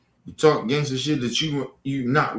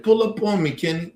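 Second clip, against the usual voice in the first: mocking troll; 5 semitones higher than usual. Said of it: "He said".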